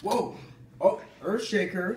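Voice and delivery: excited shout. Real, not acted. Cheering the race winner.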